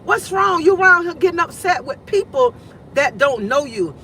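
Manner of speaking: high, exasperated self-scolding; scolding herself. Retold or imitated. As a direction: tell yourself off in disbelief. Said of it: "I'm like".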